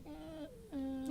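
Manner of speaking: soft, high mock whining groan; small high-pitched groan of regret, imitated; mock whimper. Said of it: "the next morning he's kinda like".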